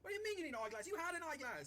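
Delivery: high, loud yell up the mast; loud, scornful shout; exasperated distant shout. Acted. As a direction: holler at a dim lookout overhead. Shouting up to the crow's nest.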